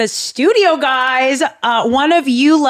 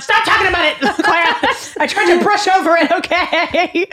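emotional; 7 semitones higher than usual. Real, not acted. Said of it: "I'm super emotional".

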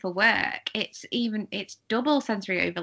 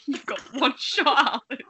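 Rapper pep talk; 4 semitones higher, 4 dB louder than usual. Retold or imitated. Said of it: "not dissimilar from a rapper in Eight Mile".

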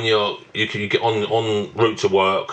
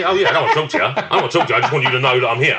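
laughing mock reply; 3 semitones higher, faster than usual. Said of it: "I went".

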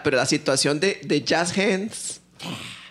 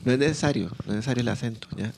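passive mock reply; 3 semitones lower than usual. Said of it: "que sea como así".

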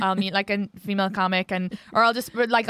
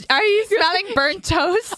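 mock concern; 8 semitones higher, slower than usual. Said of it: "like they're having a stroke".

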